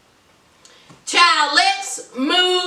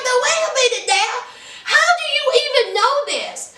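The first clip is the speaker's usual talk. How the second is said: mock shout; 7 semitones higher, faster than usual. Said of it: "And he was like".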